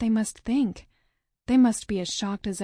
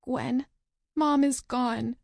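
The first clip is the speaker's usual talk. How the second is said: hoarse voice; 4 semitones higher, slower than usual. Acted. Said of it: "says in a hoarse voice".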